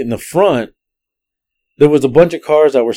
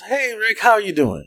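imitated female greeting; 9 semitones higher, 4 dB quieter than usual. Acts out girl greeting the driver.

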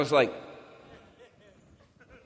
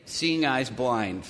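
quiet prayer; 6 semitones lower, 5 dB quieter, much slower than usual. Retold or imitated. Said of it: "you see me pray at one point".

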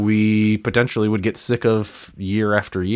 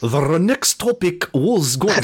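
laughing; 8 semitones higher, slower than usual. Real, not acted.

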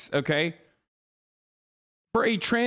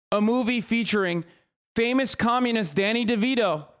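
mock pundit outrage. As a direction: play a pompous pundit clutching pearls over the loony left. Mock outraged conservative pundit rant.

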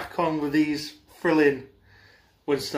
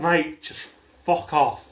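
shaking with anger; slower than usual. Real, not acted. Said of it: "He just got so mad".

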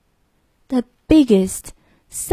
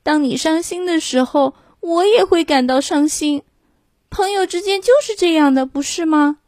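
sincere lamb; 6 semitones higher than usual. Acted. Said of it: "小绵羊真诚地说".

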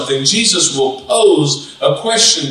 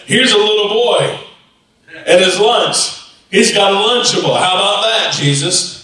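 higher-pitched wisecracking delivery; jokey; 4 semitones higher than usual. Acted. Andrew jokes to Jesus about feeding the crowd, jokey. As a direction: toss it out like the group's joker. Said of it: "always got jokes".

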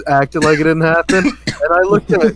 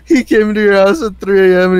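louder, higher, amped-up storytelling; excited retelling; 6 semitones higher, 6 dB louder than usual. Real, not acted. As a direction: tell it with rising excitement.

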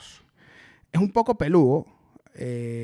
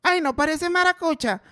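voz burlona de otros; 7 semitones higher than usual. Retold or imitated. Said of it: "me dicen".

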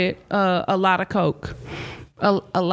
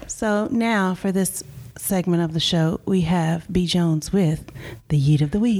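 tipsy voice; 4 semitones lower than usual. Acted. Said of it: "That was my tipsy voice".

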